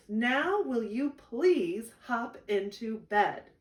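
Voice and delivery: big brother pleading after a long night; exasperated big brother. Acted. Brother's exasperated final plea.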